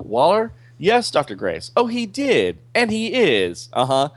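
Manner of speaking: brisk official taking a call; Waller on the phone. Acted.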